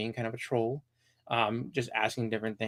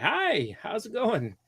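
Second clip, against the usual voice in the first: nice phone voice; 10 semitones higher than usual. Retold or imitated. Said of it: "try to be all nice".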